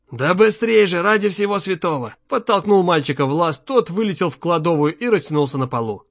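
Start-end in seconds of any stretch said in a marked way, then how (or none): 0.1-2.1 higher, forceful and exasperated; father pressing his son to escape; urgent urging. A narrator's reading. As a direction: hurry the child in alarm. Father urges son to flee.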